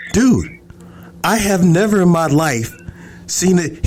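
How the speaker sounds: high-pitched retold freak-out; freaked-out brother. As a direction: imitate a brother reeling in disbelief. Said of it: "he's freaking the fuck out".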